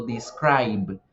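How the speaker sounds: "describe" said "dis-kraib"; silent final E. Shown as a demonstration. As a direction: stop "describe" on the B, no vowel after. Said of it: "se pronuncia solo la B".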